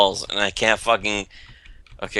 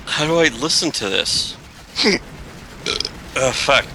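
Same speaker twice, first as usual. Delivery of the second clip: talking through hiccups; hiccuping between words. Real, not acted. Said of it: "I have the hiccups".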